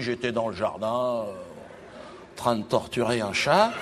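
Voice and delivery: a man telling a caller he was busy torturing a cat; casual sinister Jean-Marie. Acted. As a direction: say it like a calm villain at leisure. Jean-Marie voiced on phone.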